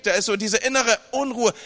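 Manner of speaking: usual speaking voice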